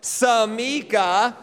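Samika slow, with the Jewish flourish and a rising finish; Jewish-sounding flourish. Shown as a demonstration. Pastor demonstrating a Jewish-sounding Samika, playful rising end. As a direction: Samika ending on a lift, playful. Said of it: "Ready? Go".

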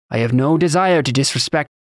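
put-on earnest denial in a thick Taconi accent. A narrator's reading. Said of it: "in his thick accent".

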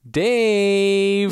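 high, loud, drawn-out Dave; drawn-out call. Acted. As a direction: belt the name out, long and loud. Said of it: "the title of this episode is gonna be Helpless Dave".

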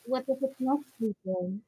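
muffled, like speaking through water; talking underwater. Real, not acted. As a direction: sound submerged and muffled. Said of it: "It sounds like you're talking underwater".

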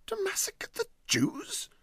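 high, shocked indignation; indignant outburst. Acted. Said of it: "said Huddle indignantly".

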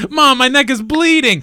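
put-on high, pleading little kid voice; whiny kid. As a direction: whine like a hurt child. Voicing the kid.

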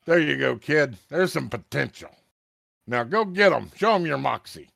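high, loud wisecracking New York-style voice; a brash old-timer cracking wise from the fog. Acted. Fog voice speaks again.

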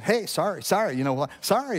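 tossed-off "Hey, sorry, sorry", last "Sorry" flicked up high; mock a careless throwaway apology; flippant sorry. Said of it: "it doesn't matter if you're just like".

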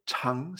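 CHANG starting low and rising; second tone. Shown as a demonstration. Teacher isolates the second syllable, slow rising tone. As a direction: lift "chang" slowly from low.

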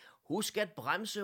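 high, loud, slow shout; shouted warning. A narrator's reading. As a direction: call out a drawn-out warning. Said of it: "råbte hr". (højt, langtrukket advarselsråb)

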